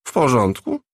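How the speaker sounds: his other voice. Acted. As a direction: drop the act, ask plainly. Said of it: "zapytał swoim drugim głosem". (drugim głosem, poważniej)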